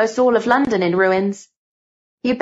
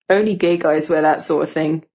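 put-on lightly lowered boy voice; needling schoolboy; 4 semitones lower than usual. Gordon needles Cynthia about the teacher, lightly deep boy. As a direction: sneer a little in a deepened boy's voice.

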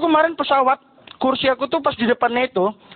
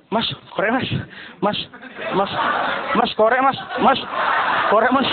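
insistent pestering; 3 semitones lower than usual. Retold or imitated. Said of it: "kalau orang budak".

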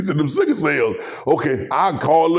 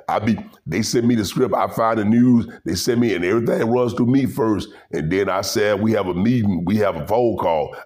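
mock Skip Bayless; 8 semitones lower than usual. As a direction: drop it low and mumble like Skip. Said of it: "Skip Bayless said one time".

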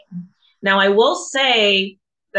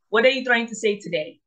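put-on quicker African accent take; second, faster go at an African accent; 3 semitones higher, faster than usual. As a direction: rattle it off fast in an African accent. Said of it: "let me see if I can do my African accent".

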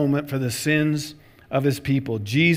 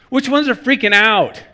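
mock questioning; 8 semitones higher, 5 dB louder than usual. Angel's imagined questions, acted.

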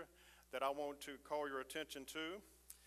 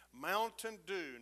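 slow, loud call-out; 5 semitones higher, 6 dB louder, much slower than usual. Acted. Pastor proclaiming the sermon title in place of amen, slow and loud. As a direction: stretch it out and proclaim it slowly. Gives the congregation's closing response.

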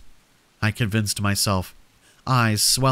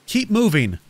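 high, loud frantic scream; urgent shouted order; 9 semitones higher, 3 dB louder than usual. A narrator's reading. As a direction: scream it while running for the exit. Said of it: "I screamed".

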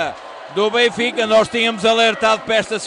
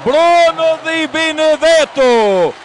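high, slow ecstatic cries; explosive goal commentary; 4 semitones higher, much slower than usual. Real, not acted. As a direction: rave about the goal, stretching the words. Co-commentator raves about goal.

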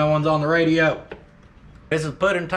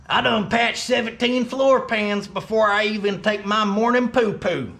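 redneck voice; 4 semitones higher than usual. Acted. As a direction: ham it up like a good ol' boy. Redone boast in put-on voice.

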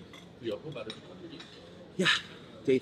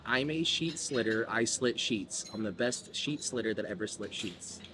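slow tongue twister demo; 4 dB quieter than usual. Shown as a demonstration. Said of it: "Hear, hear me out here".

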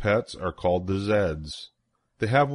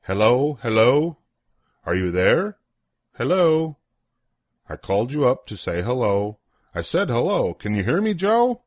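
louder, raised calls of hello; playful louder phone calls, rising at the end; calling out on the phone; 3 semitones higher, 4 dB louder than usual. Acted. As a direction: call down a bad phone line. Calling on a bad phone line.

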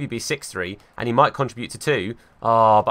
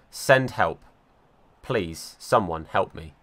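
mock despair; 6 semitones lower, 4 dB quieter, slower than usual. Real, not acted. Mock despair after the miss.

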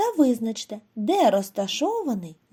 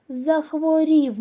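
sick donkey; 6 semitones higher, 5 dB louder, slower than usual. Acted. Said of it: "охрип".

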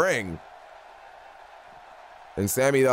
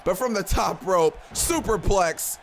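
excited shout; 4 semitones higher, slower than usual. Real, not acted. Big move called from top rope.

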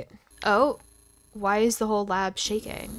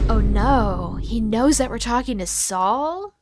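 alarmed; 6 dB louder, slower than usual. Acted. Boss knows about lawyer.

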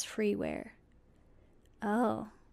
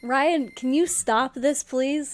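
loud whiny plea; 5 semitones higher, 5 dB louder than usual. Real, not acted. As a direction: whine at him to make it stop. Begging Ryan to stop light.

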